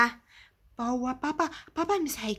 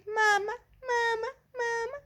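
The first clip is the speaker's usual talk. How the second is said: crying for mama; 5 semitones higher than usual. Acted. Child calls mother, crying.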